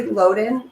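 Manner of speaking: "Loudon" with a long O, LOH-dən; own pronunciation. Shown as a demonstration. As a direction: say "Loudon" as if spelt "Loden". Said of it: "I say Loudon".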